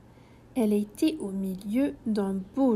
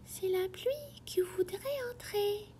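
small, sad, soft voice, higher and whispered; a sad little raindrop's hushed voice; 8 semitones higher, 6 dB quieter than usual. A narrator's reading. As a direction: whisper it like a shy little rain. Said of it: "une petite voix triste et douce".

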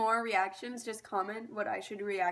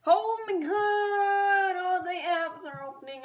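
exasperated; 8 semitones higher, 7 dB louder, slower than usual. Real, not acted. Frustrated at apps opening.

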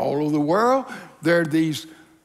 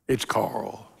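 low, soft, humbled answer; timid; 9 semitones lower, 5 dB quieter than usual. Acted. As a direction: give the name meekly, without pomp. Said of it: "rather timidly".

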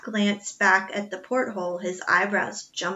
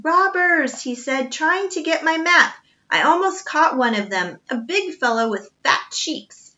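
put-on higher, louder, flustered old doctor; agitated doctor; 7 semitones higher, 6 dB louder than usual. A narrator's reading. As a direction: blurt it out, still rattled from the dream. Half-asleep doctor raves about robbers.

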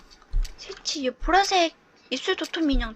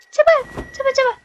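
higher, drawn-out pleading whine; plead, then sink into dismay; slow, higher wail of disappointment; despairing; 8 semitones higher, slower than usual. Real, not acted. Clock resets to one again.

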